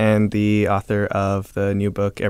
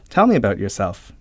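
shouting; 6 dB louder than usual. Acted. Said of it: "shouts Jomny".

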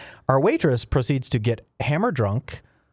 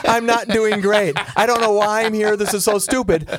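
louder, higher exhausted complaint; exasperated inner rant; 5 semitones higher, 3 dB louder than usual. Retold or imitated. Worn-out runner griping to the cheering crowd, exasperated. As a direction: vent like a spent runner. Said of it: "I'm like".

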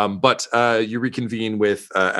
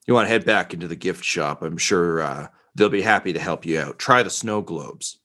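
gruff guard. Acted. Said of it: "you just hear him say".

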